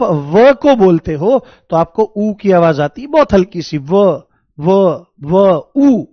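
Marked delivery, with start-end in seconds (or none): 4.6-6.0 व as a quick उ-व; demo of व. Shown as a demonstration. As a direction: say व with a faint उ glide at the start. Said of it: "उ की आवाज आती हुई दिखाई देती है".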